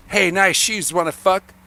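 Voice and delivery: barging through a pickup line, loud and high; Adam. Retold or imitated. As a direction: imitate a friend's brash, jokey come-on. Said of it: "he would just barge through it".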